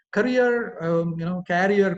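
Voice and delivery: "Career" loud, with a hard final R; heavy R on each "career"; common mispronunciation. Shown as a demonstration. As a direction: say "career" both as ka-REE-er and KA-ri-er. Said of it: "People say career".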